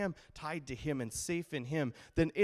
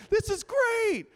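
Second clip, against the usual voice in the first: high, loud delight in the wind; thrilled in the storm; excited; 11 dB louder, slower than usual. Retold or imitated. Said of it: "you know, like".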